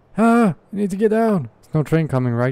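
high, rushed, flustered, panicking worry. Playing a game, struggling to back up and hoping no train comes; panicking. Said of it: "I'm panicking".

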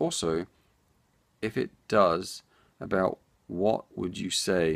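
very slow, word-by-word reading aloud. Reading a viewer's comment aloud on the show, reading very slowly. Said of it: "Why am I reading so slowly?".

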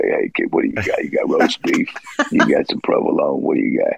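put-on rough, creaky talent agent patter. Showing how an agent would talk, imitating how he talked. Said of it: "he would talk like this".

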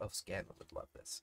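muttering quietly. Voicing a character who giggles, then speaks under her breath. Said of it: "you just hear her under her breath".

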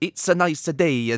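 terrible, over-the-top, exaggerated fake Italian accent. Mocking a non-italian actor's portrayal with an over-the-top fake italian accent. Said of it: "I'm just doing a terrible impression".

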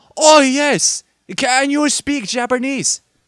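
put-on very shrill, very loud, heavy Japanese accent. Voicing a game character who the game says has a horribly thick accent. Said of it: "he has a horribly thick accent".

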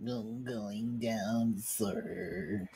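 soft, glum, mopey sad-sack cartoon voice. Taking another turn at doing Droopy, Droopy impression. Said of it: "See, yours is better".

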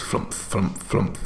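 soft puffing air-puff noise.

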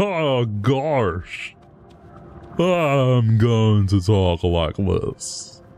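slow, derpy, dim-witted drawl, "I'm" dragged out. Imagining what a strange yellow figure would sound like, in a slow derpy voice. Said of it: "Such a slow and derpy voice".

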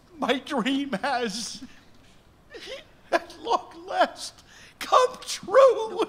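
weeping throughout, tearful, high and drawn out. Having finally won a million dollars, he speaks to himself while crying. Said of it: "Stop crying".

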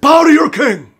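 very high, very loud, shrill fake English accent. Lecturing viewers about putting in the work, then joking: put-on English accent. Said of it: "start speaking in, in a, in an English accent".

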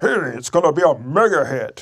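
loud, square-jawed all-American dad voice. Imitating an executive described as a real-life American Dad: imitating Bing Gorton. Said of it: "he talks like, he's like".

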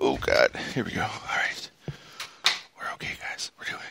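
soft, hushed whisper. Speaker walking up the stairs at home, talking to viewers, whispering. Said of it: "I don't know why I'm whispering".

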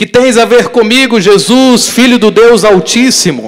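very high, loud, possessed-sounding shout.

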